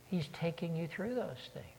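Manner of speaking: whispered reassurance. Real, not acted. Preacher comforts the congregation in a whisper. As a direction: lean in and breathe it to them.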